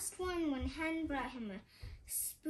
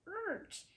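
gagging noise; 8 semitones higher, 3 dB quieter than usual. Acted. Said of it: "he gagged".

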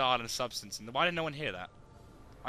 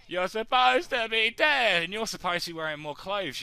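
mock indignant; 7 semitones higher, 6 dB louder than usual. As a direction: draw it out in fake outrage. Scolding an enemy.

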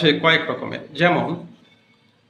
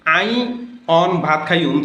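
"আই অন ভাত খাইয়ুম" in Noakhali dialect, অন for এখন; proper Noakhali: আই অন ভাত খাইয়ুম. Shown as a demonstration. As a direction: Noakhali Bengali, understated. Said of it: "এটিকে যদি".

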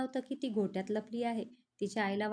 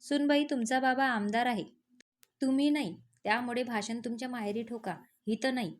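raised angry retort; 2 semitones higher, 4 dB louder than usual. Acted. Father-in-law snapping at his daughter-in-law, angry and loud. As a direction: put her in her place, louder. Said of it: "Babasaheb रागात बोलले".

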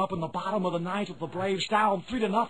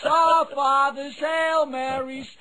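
stadium vendor call; 4 semitones higher than usual. Acted. Vendor hawking penance.

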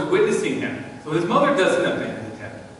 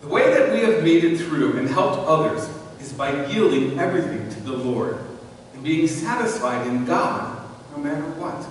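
reading aloud. Shown as a demonstration. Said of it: "this is what I wanted to read to you".

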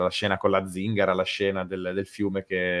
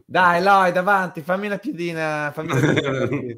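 put-on Romagnolo accent; 6 semitones higher, 4 dB louder than usual. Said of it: "un Lloyd interpretato in stile Valentino Rossi".

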